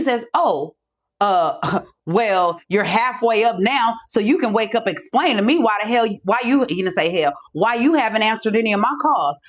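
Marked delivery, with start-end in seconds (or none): 0.3-6.6 hesitant start, then mildly indignant demand; stern and upset. Retold or imitated. Caller telling her to wake up and explain, stern. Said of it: "he's very stern and upset and mad". 7.5-9.4 stern imitation of an annoyed caller; stern and upset. Caller demanding why she ignored his calls, stern. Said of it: "he's very stern and upset and mad".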